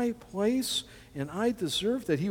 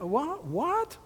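high rising what, what; incredulous; 10 semitones higher, 3 dB quieter than usual. Acted. Preacher voicing the stunned disciples, incredulous high question. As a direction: gasp out the disbelief.

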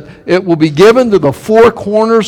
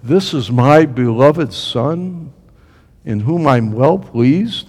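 slow, softer, solemn voice from heaven; 5 semitones lower, 4 dB quieter, slower than usual. Retold or imitated. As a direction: intone it gently like a heavenly voice. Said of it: "hear a noise from heaven".

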